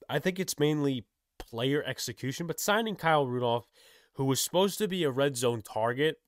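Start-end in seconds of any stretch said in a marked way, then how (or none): 2.5-6.2 talking through hiccups; hiccuping between words. Real, not acted. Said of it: "excuse me for the hiccuping and the burping".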